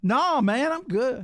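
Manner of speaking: high, loud no thanks; loud protest. Real, not acted. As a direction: shout it off quickly.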